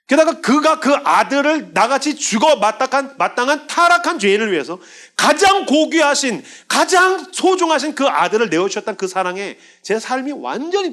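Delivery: high, loud, slow fervent preaching; impassioned preaching. Real, not acted. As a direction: pour out the wonder of grace at full voice. Preaching at full force.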